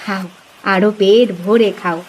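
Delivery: mother-in-law urging her son-in-law to eat, low and soft; doting mother-in-law. Acted. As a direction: coax him to eat like a fond old mother.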